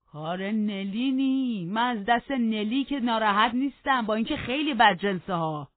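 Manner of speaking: put-on high, loud quavering old man's complaint; aggrieved old servant. Joseph complains to the master about his garden, loudly aggrieved. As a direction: rant like an offended old servant.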